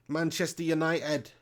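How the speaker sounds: slow attempt at a Manchester accent; Manc accent. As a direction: draw it out slowly in a rough Manc accent. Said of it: "I'm shit at the Manc accent".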